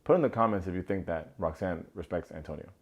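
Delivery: straight-faced, steady request; sincere call to comment; serious. Shown as a demonstration. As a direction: say it plainly, no joke. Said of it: "I'm gonna say it seriously".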